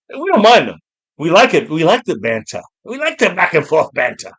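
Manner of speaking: mock British accent, non-rhotic "bantah"; bad English accent. Streamer joking about haters in chat, bad English accent. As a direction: put on a dodgy British accent. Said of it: "Horrible English accent".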